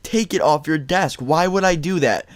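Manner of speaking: high, slow indignant mock scream; retold screaming. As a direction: start shrill-high, drag out the outraged questions. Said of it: "I started screaming".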